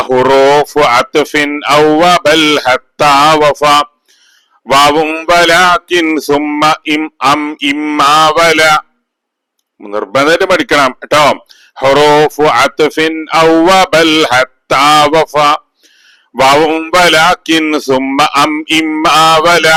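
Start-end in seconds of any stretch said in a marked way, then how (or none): 0.1-8.6 very slow, drawn-out classroom recitation; memory-verse recitation. Shown as a demonstration. 11.8-19.7 very slow, drawn-out classroom recitation; memory-verse recitation. Shown as a demonstration.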